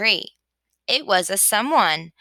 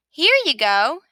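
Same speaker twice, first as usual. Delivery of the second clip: a hint of a chirpy sheep, quick and eager; lightly voiced Sheep; 5 semitones higher, 4 dB louder than usual. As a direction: rattle it off like a busy know-it-all. Sheep's voice held.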